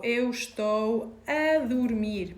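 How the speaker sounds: 'Eu estou a dormir' spoken slowly and clearly; slow Portuguese example. Shown as a demonstration. Teacher giving learners a slow example. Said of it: "for example".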